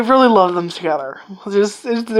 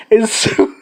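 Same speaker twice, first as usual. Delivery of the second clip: usual speaking voice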